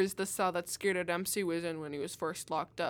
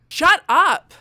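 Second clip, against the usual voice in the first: loud, high barked command; furious shout; 7 semitones higher, 15 dB louder than usual. Acted. Cop shouts the prisoner down. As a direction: cut him off with a shout.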